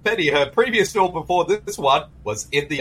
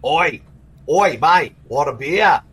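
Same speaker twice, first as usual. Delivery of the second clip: a touch of an Australian bloke; offering a beer, lightly Aussie; mock Aussie accent; 2 semitones higher, slower than usual. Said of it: "I don't know what that voice was".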